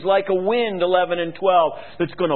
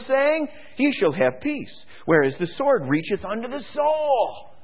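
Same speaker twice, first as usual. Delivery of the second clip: prophet's lament; 8 semitones higher than usual. Acted. Jeremiah crying out to God over deceived people, anguished. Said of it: "Then said I".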